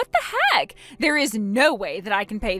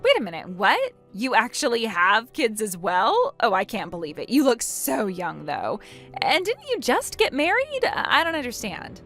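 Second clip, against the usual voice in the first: incredulous disbelief with pitch leaps; astonished. Acted. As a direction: react in stunned disbelief. Opal astonished at Hannah having kids.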